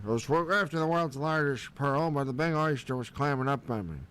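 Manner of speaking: retry near his own voice, only lightly voiced crab; second crab voice. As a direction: start the crab story over, barely in character. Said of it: "Let me start over".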